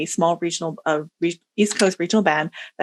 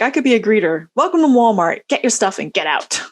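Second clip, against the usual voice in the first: grumpy puppet voice; 4 semitones higher, 4 dB louder than usual. Retold or imitated. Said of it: "Walter's like".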